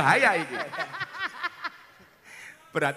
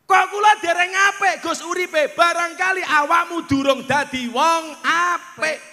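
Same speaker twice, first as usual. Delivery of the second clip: louder, slow preaching with raised questions; sermon voice, slow and loud; slow sermon delivery; 6 semitones higher, 7 dB louder, slower than usual. Acted. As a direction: preach it over the music, drawn out. Preaching over music.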